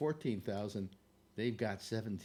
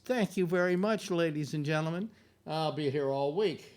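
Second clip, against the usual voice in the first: stand-up comic; 4 semitones higher, 5 dB louder than usual. Pretend. Mock stand-up sign-off.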